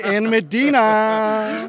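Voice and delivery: stretched-out, rising introduction; playful announcer flourish. Real, not acted. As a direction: draw the name out like a show host. Host playfully announcing the group name.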